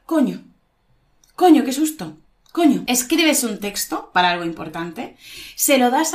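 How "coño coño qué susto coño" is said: short startled exclamations; startled by touch. Shown as a demonstration. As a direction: jump as if tapped from behind. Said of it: "de repente alguien te toca la espalda".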